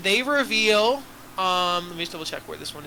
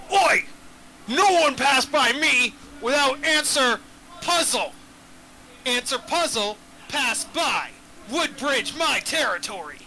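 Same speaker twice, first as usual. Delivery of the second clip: dopey cartoon bellow; 5 semitones higher than usual. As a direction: bellow like a dim bridge troll. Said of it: "and the troll says".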